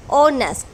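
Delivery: ऑनेस्ट begun on the O vowel, no H; silent H. Shown as a demonstration. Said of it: "एच silent हो जाने के बाद". (ऑनेस्ट, बिना ह की आवाज़, ओ से शुरू)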